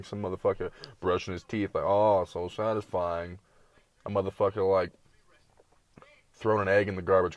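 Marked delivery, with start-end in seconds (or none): 1.8-3.4 mock satisfaction. Mocking satisfying-video reactions.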